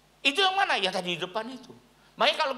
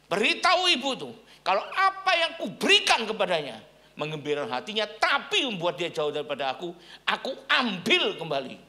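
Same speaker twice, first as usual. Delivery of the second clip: voice in the heart; 3 dB louder than usual. Retold or imitated. Pastor voicing God's warning about the mother, raised and solemn. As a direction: proclaim it like a voice from above. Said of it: "seperti ada suara di hati saya mengatakan".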